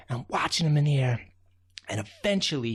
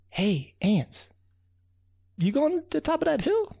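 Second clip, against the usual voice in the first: calling to ants; 13 semitones higher than usual. Acted. Raccoon calls up to tiny ants.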